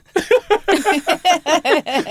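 squealing laugh; high burst of laughter. Real, not acted. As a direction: crack up high. Laughs after the jingle.

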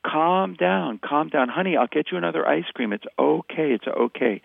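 placating parent's sing-song reassurance; patronizing. Shown as a demonstration. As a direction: talk a child into calm, condescendingly. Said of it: "using that patronizing voice".

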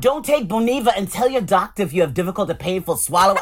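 lightly voiced snippy cashier reading an ad; a hint of the cashier doing a pharma spot; drug commercial in cashier voice. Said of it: "drug commercial in that voice".

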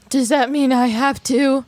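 a touch of alarm. Retold or imitated. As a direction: ask it a little scared. Scared child gasps, asks.

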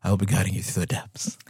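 low, calm dive guide voice; scuba instructor voice. Pretend. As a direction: welcome divers to the deep, low and smooth. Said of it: "sounds like a scuba instructor".

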